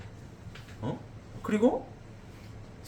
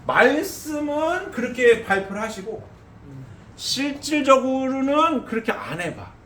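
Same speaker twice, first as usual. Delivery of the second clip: fiery preaching; 11 semitones higher, 6 dB louder than usual. Acted. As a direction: drive it home from the pulpit. Preacher rising to full force.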